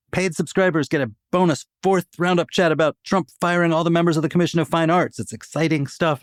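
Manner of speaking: promo read. Acted. Host reads the membership plug.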